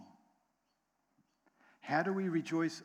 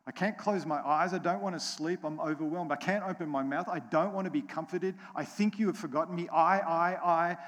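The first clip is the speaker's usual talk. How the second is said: voicing Asaph in despair; 4 semitones higher, 7 dB louder than usual. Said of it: "It was all of his circumstances".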